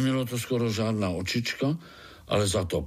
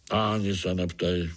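gloomy; 3 semitones lower than usual. Acted. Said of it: "odpověděl žížalák ponuře".

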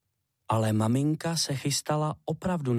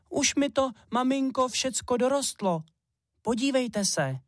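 little hare pleading; 12 semitones higher than usual. Acted. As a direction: beg mum to wait, small and eager. Little hare shows he has grown.

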